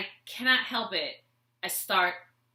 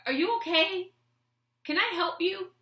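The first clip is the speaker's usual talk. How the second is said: put-on old man asking; 8 semitones higher than usual. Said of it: "he said".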